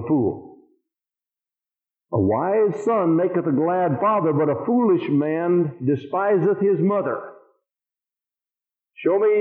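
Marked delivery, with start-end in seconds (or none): 2.1-7.3 slow, measured verse reading; scripture reading. Real, not acted. Preacher reading Proverbs to the congregation, slow and measured. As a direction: read the proverb out slowly, word by word.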